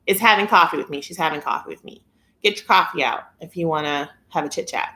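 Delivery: usual speaking voice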